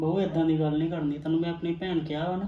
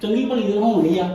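insisting loudly; 3 semitones higher, 5 dB louder than usual. Acted. Husband pleads with angry wife.

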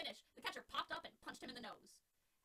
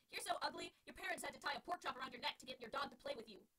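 taunting insult; 3 semitones higher, 4 dB louder than usual. Acted. Alex taunts the pitcher.

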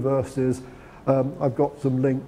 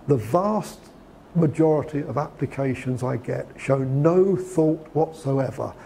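no thought whatsoever slowed and leaned on; stress on no thought whatsoever; slower than usual. Retold or imitated. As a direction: quote Schekman weighing each word of no thought whatsoever. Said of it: "he really stresses it in that way".

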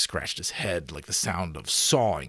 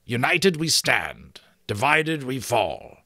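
higher, slow declaimed password; giant's shout; 5 semitones higher, 4 dB louder than usual. Acted. Giant finishing the password, shouted recital. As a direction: recite it out in triumph. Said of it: "the giant shouted".

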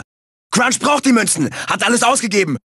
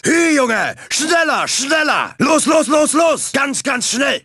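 higher-pitched, insistent racer's cries; impatient calls for more speed; urgent urging; 3 semitones higher, slower than usual. Acted. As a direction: egg the driver on, word by word.

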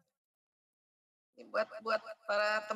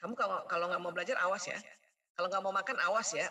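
threatening parent; 5 semitones lower, faster than usual. Shown as a demonstration.

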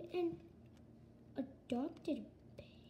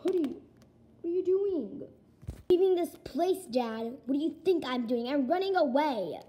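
loud argument; 6 dB louder than usual. Acted. Mother and kid argue loudly.

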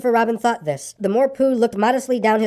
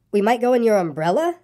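"umbrella" lifted in a questioning rise; mildly insistent rise on "umbrella"; rising repeat; 3 semitones higher than usual. A narrator's reading. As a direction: repeat the offer, tipping "umbrella" upward. Pooh's line repeated, escalating each time.

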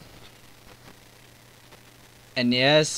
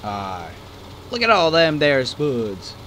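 failed attempt at an Irish accent, slow; a weak stab at an Irish brogue; 4 dB louder, slower than usual. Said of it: "That was not Irish".

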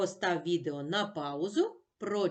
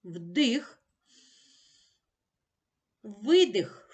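breathing rhythm calls; much slower than usual. Shown as a demonstration. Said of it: "Почали".

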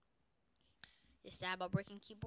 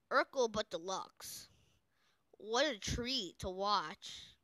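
slow savoring; 5 dB louder, much slower than usual. Acted. Savoring strategy.

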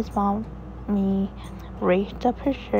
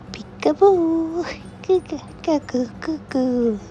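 put-on peekaboo baby talk; 7 semitones higher than usual.

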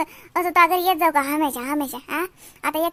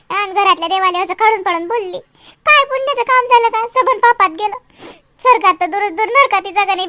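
rising, louder anguished wail; tearful lament; 3 semitones higher, 5 dB louder than usual. Acted. Aunt to nephew Raju, lamenting in tears. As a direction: lament the sin, voice cracking.

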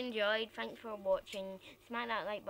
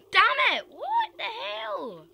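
high loud startled yell; 12 semitones higher, 10 dB louder, slower than usual. Real, not acted. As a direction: yell in sudden fright. Jump scare in horror game.

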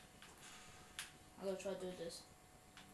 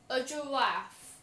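drawn out slowly; 7 dB louder, much slower than usual. Shown as a demonstration. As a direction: stretch out a giraffe slowly. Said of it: "playing as this guy".

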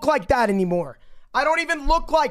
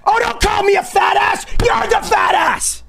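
angry shouting; 5 semitones higher, 3 dB louder than usual. Real, not acted. Shouting insults back in argument.

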